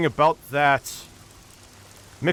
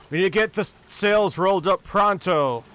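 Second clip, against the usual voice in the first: higher-pitched order without much volume; captain's mild yell; 3 semitones higher than usual. Acted. Captain orders the crew to the sails, restrained yell. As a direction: give a lightly acted captain's command. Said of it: "The captain yell".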